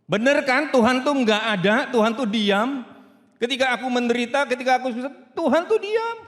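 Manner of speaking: loud, high bitter complaint; bitter doubter. Acted. A doubting listener complaining loudly that God is silent. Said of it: "sebagian saudara akan begitu".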